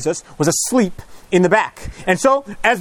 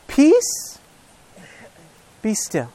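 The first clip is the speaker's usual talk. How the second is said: commanding the storm; much slower than usual. Acted. Jesus calms the storm.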